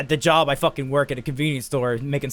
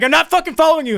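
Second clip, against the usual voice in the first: wide-eyed denial; 12 semitones higher, 5 dB louder, faster than usual. Retold or imitated. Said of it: "my eyes go wide. I'm like".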